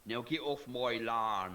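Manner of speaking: slow, low farmer growl; gruff farmer. Retold or imitated. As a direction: order them off slowly. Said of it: "they'd be more like".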